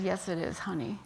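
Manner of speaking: softly retold husband's answer, quiet and tender; gentle reassurance. Husband answering his forgetful wife about their anniversary, softly reassuring.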